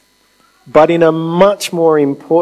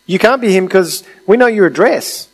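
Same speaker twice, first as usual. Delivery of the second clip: mocking townsfolk voice, pitched higher, climbing as it goes; dismissive crowd; 7 semitones higher than usual. The crowd brushing off Jesus, a mocking higher scoff. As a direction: scoff at him like a know-it-all neighbour. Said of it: "these people are looking at Jesus and going".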